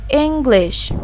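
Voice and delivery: English with a stressed, lengthened first syllable. Shown as a demonstration. Teacher showing learners syllable stress in "English", stressed on the first syllable. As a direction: hit the ENG of "English". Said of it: "louder, longer, and higher in pitch".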